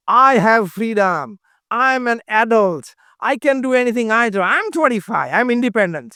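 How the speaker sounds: slow, declaiming imitation of a young adult; imitated defiant independence, stretched out; mock self-assertion. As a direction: proclaim each claim as a mocking imitation. Mimics young adult claiming independence.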